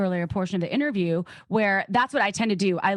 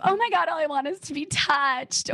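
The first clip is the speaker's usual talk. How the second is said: mock needy plea; 8 semitones higher than usual.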